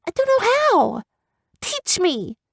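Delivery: put-on high, begging girl's voice; pleading young girl. Girl character voice.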